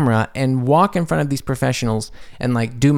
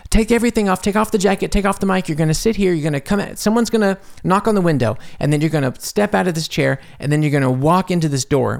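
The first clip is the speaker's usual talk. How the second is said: higher-pitched run of retold instructions; crew member's orders; 5 semitones higher, faster than usual. Crew member directing an extra on set, retold orders. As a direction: list each step as an imitated crew order.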